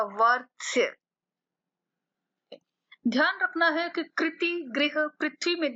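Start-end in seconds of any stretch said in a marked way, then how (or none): 0.0-0.8 वर्ष with the r said before ष; model pronunciation. Shown as a demonstration. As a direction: say वर्ष, r first and half. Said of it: "लेकिन बोला वो पहले ही जाएगा".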